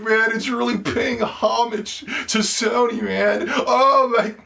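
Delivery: high, slow, gushing mock fanboy with laughs. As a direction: ham up a swooning nostalgic fan. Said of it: "the thing that really pisses me off when it pertains to the media pundits and the fanboys".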